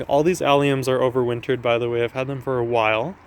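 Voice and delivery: slightly winded from walking; out of breath. Real, not acted. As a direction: talk while a bit out of breath. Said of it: "I'm getting out of breath".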